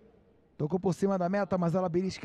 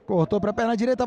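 excited; 2 semitones higher, faster than usual. Real, not acted. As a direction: build up to the goal. Replay called louder, faster.

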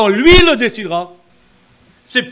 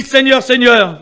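mock crying out; 4 semitones higher, 6 dB louder, slower than usual. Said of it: "Il y en a qui crient".

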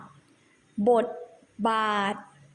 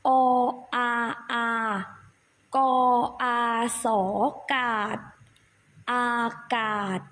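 spelling drill. Shown as a demonstration. Teacher leads children through spelling a word, measured recitation. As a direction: separate syllables with pauses between.

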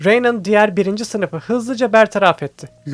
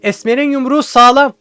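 admiring smile; 6 semitones higher, 6 dB louder than usual. A narrator's reading. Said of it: "beğeni dolu bir gülümsemeyle".

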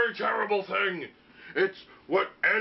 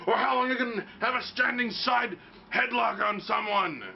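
usual speaking voice

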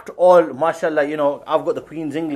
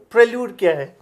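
mock quote; 7 semitones higher, 3 dB louder than usual. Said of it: "He goes".

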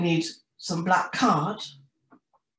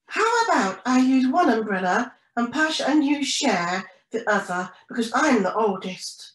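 big-brother penguin Pedro; 5 semitones higher, 4 dB louder than usual. Acted. Pedro proposes sharing the umbrellas.

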